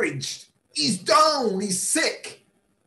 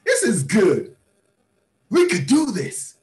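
delighted spouse. Retold or imitated. Spouse cheering on the house plan, hammed-up delight. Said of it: "your partner is".

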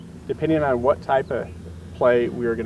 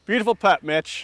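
excited praise; 8 semitones higher, 3 dB louder than usual. Real, not acted. Praising a putt on the green.

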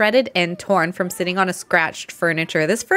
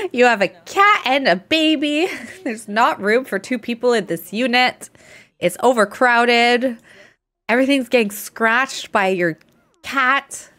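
mock landlord; 4 semitones higher than usual. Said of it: "The landlord's like".

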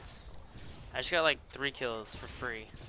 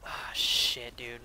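whisper; 4 semitones lower, much slower than usual. Real, not acted. Whispered curse.

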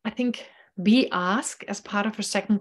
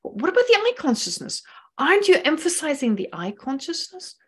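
puzzled student question; 6 semitones higher than usual. Retold or imitated. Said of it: "the question that a lot of people ask".

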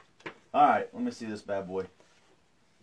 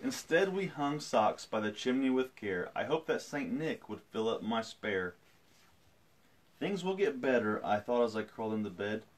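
storytelling. A narrator's reading. Reads picture book aloud.

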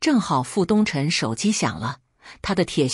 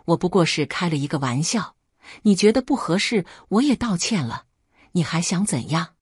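losing patience. Acted. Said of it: "傅东辰失去了耐性".

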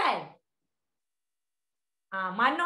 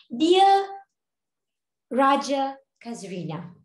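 slow formal salutation; stiff formal greeting; slower than usual. Shown as a demonstration. Teacher showing an unfriendly salutation, stiff and formal. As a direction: address someone stiffly and formally. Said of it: "How to be friendly?".

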